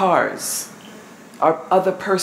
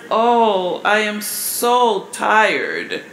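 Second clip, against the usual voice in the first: tired wife; much slower than usual. Retold or imitated. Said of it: "she says".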